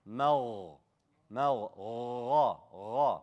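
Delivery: Gha with a long gargle at the back of the throat; gargled ghain. Shown as a demonstration. Teacher drills the ghain, gargled Gha. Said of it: "that's the ghain".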